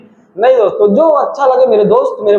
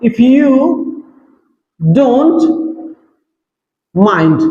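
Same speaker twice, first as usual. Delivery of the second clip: drawn-out polite phrase; much slower than usual. Shown as a demonstration. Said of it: "यहाँ पे बहुत खूबसूरत लगेगा".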